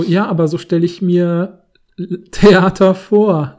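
said through a laugh. Pretend. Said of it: "er macht es dann lachend".

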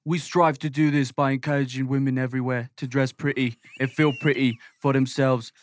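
lightly put-on British accent. Reading out the boutique's mission, British accent. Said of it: "I was doing a British accent".

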